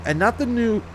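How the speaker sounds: hiccuping mid sentence; a hiccup breaks the words. Real, not acted. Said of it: "I have the hiccups a little bit".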